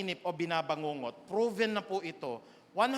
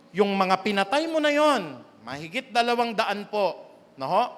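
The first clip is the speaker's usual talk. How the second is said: loud, driving sermon delivery; loud preaching climax; forceful preaching; 8 dB louder than usual. Real, not acted. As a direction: drive the point home, loud.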